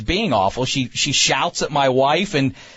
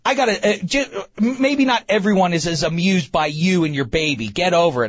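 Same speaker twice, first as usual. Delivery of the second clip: retold retort; 4 semitones higher than usual. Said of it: "she turned around and she said".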